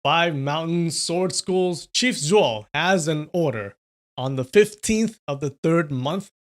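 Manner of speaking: loud, measured proclamation; clear announcing voice. A narrator's reading. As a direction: deliver it like an official order, clearly and firmly. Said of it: "said in a clear voice".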